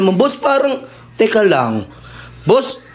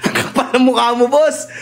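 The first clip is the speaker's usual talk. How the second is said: laughing scolding; 3 semitones higher than usual. Acted. Scolding the intruder.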